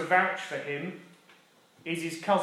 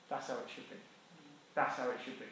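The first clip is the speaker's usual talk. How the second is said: soft conviction; 5 semitones lower, 15 dB quieter, faster than usual. Real, not acted. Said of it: "repeated softly".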